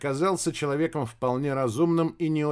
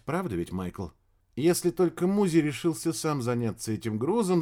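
lightly raised, earnest woman's voice; 3 semitones higher than usual. Acted. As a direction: explain it in a slightly higher voice. Female character explains to Michael.

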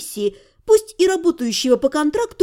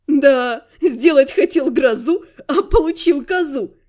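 snorting laugh. Acted. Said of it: "прыснула Элька".

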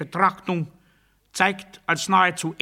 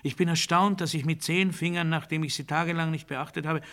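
hushed astonishment; 6 dB quieter than usual. Acted. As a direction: murmur each astonishment softly. Quiet litany of astonishment.

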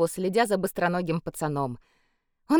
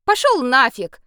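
rude brush-off; 6 semitones higher, 8 dB louder than usual. A narrator's reading. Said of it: "непедагогично выразила Саша".

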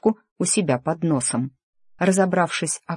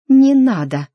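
much higher, louder cry of stop; desperate cry; 9 semitones higher, 8 dB louder, slower than usual. A narrator's reading. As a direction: cut him off in panic. Charlotte cries out.

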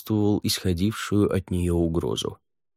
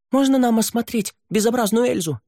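put-on high, loud boyish yell; boy's shout; 4 dB louder than usual. A narrator's reading. Boy calls out across the grotto, loud and high. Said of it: "Крик мальчишки разорвал тишину".

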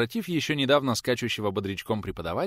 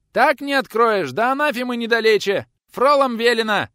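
squeaky yell; 11 dB louder than usual. A narrator's reading. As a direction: shout it from the yard. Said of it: "надрывался между тем служитель".

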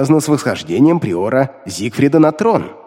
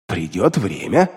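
low, slow evasive demon; low, slow demon, secretive; 7 semitones lower, 4 dB quieter than usual. A narrator's reading. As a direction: brush him off as the demon. Demon evades question.

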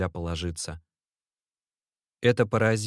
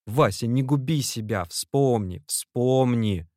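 higher, louder desperate plea; pleading through tears; 5 semitones higher, 4 dB louder, slower than usual. A narrator's reading. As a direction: beg him not to ruin himself. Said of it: "заливаясь слезами".

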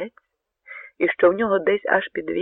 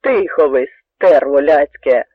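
slow, much louder threatening roar; loud and menacing; 7 dB louder, slower than usual. A narrator's reading. Cossack silencing the soldiers, loud and menacing. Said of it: "крикнув козак так голосно і грізно".

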